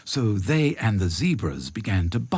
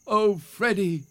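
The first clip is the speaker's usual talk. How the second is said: high, coaxing plea; begging; 12 semitones higher than usual. A narrator's reading. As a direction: plead sweetly in a raised voice. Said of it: "they begged".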